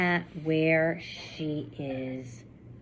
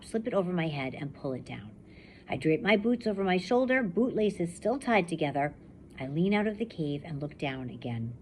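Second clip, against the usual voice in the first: steady first-person reading to a class; story narration. A narrator's reading. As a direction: read it like a survivor telling her own story. Teacher reads novel aloud.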